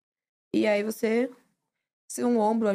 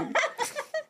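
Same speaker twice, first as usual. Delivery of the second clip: a high, soft laugh; 4 dB quieter than usual. Real, not acted. Guest laughing softly after being called mocking. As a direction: laugh it off, caught out.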